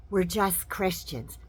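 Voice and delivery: slow, mock-pious claim; mock innocent. Mocking white nationalists claiming they're just Christians, slow and pious. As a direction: play it falsely innocent.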